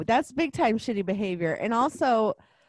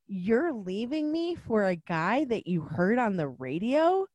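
incredulous question climbing at the end; hurt, appalled. Retold or imitated. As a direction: ask in disbelief, rising to "radio". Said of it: "I'd be really hurt".

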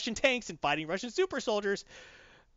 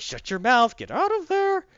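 loud, high-pitched acted shout; retold yelling; 7 semitones higher, 7 dB louder than usual. Batman yelling at Superman to get out, loud shout. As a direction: yell it, climbing higher as you go. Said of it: "Batman keeps yelling".

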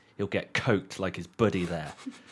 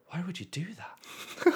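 baffled policeman; 9 semitones higher, 4 dB quieter than usual. Retold or imitated. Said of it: "looked at me and went".

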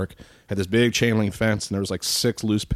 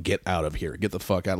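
urgent warning; 2 semitones lower, 5 dB quieter than usual. Retold or imitated. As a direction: warn him off quietly. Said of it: "give me the look like".

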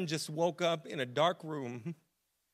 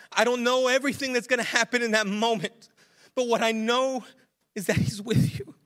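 raised, earnest preaching voice; impassioned preaching; 6 semitones higher, 6 dB louder than usual. Real, not acted. Preacher voicing David's assurance to the congregation, impassioned. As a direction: build conviction, phrase by phrase.

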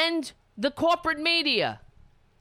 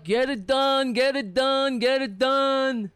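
mock scream; 2 semitones higher than usual. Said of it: "That's what he said to Stormy Daniels".

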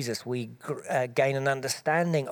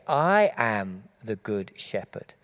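slow, deliberate weight on "I am"; emphatic I AM; 3 semitones lower, slower than usual. Retold or imitated. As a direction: set "I am" apart, then finish slower. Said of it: "what is extraordinary is".

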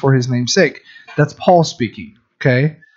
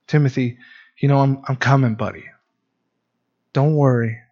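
tender fatherly reassurance; 3 dB quieter than usual. Retold or imitated. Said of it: "It's like a dad and his son".

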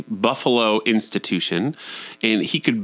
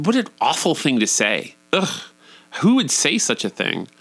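scandalized, with an appalled little "ugh"; feigned horror at a shocking title; mock outrage; 4 semitones higher than usual. Comic teller reacting to the book title, mock appalled.

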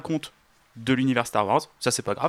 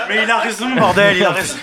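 laughing; 8 semitones higher, 11 dB louder than usual. Real, not acted. Laughing, cheering on a friend.

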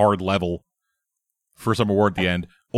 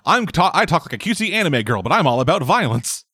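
high cutesy voice; cutesy anime girl; 6 semitones higher than usual. Retold or imitated. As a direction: chirp it like a sweet anime girl. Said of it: "she is the".

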